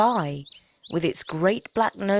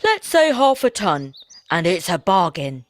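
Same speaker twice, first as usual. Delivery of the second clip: woodman; 6 dB louder than usual. Acted. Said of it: "said the woodman".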